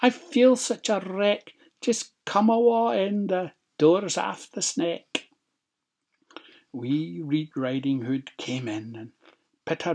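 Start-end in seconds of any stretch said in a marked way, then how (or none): 0.0-5.3 high-pitched fake granny; put-on old lady voice. A narrator's reading. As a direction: play the wolf feigning a high granny voice. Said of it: "put on his best old lady's voice".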